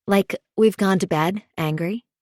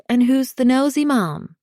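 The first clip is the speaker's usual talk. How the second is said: higher, eager question; urgent; 5 semitones higher, 4 dB louder than usual. A narrator's reading. Meg wanting to be filled in on the neighbor, urgent. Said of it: "Meg asks with urgency".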